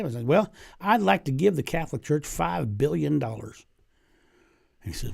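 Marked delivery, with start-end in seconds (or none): 0.3-3.7 lightly played Southern drawl. Colonel Sanders offers the Pope money in a light Southern drawl. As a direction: pitch it as a mild Southern businessman. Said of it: "in a southern drawl".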